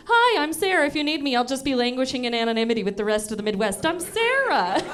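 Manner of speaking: a hint of a bland Midwestern Sarah; mock Sarah voice. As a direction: play a dull Sarah. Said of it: "I'd just be like".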